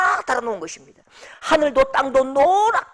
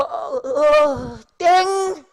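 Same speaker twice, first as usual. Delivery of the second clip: mock contest bell; 3 semitones higher, much slower than usual. Retold contest bell cuts singer off.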